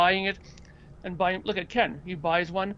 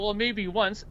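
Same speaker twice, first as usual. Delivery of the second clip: mildly acted, tentative admission; sheepish concession; 2 semitones higher, slower than usual. Collector answers his girlfriend, mild sheepish concession. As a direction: concede it in a small way. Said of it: "I go".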